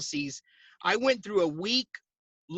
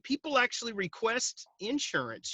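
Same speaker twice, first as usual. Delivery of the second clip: higher, softer retold amazement; blown away; 5 semitones higher, 3 dB quieter than usual. Agent recalling the moment to listeners, quietly blown away. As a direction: marvel at it in mild disbelief. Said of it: "I was blown away".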